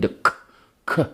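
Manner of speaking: "k" as a short, hard consonant burst; punchy K sound. Shown as a demonstration. Comedian showing how the word ends, crisp isolated "k". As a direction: pop the "k" like punctuation. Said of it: "a nice punctuation at the end".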